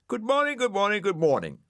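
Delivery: high, loud cheery greeting; a snail shouting cheerful greetings to a cross dog; shouted. A narrator's reading. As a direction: bellow it out merrily. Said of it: "shouted Brian".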